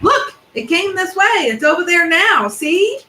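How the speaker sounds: very high, loud scream; boar screaming. A narrator's reading. Wild boar spotting the dragon, high loud scream. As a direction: shriek it out, pointing. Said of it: "he heard a wild boar scream".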